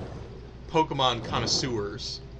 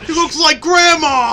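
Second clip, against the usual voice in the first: much higher, louder laughing shriek; mock shriek; 14 semitones higher, 14 dB louder than usual. Joining the joke about the cat, laughing shriek.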